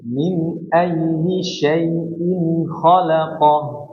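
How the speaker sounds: drawn-out tajwid chant, slow; slow Quran recitation. Shown as a demonstration. Teacher demonstrating the verse to the student, slow chant. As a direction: recite each word long and slow.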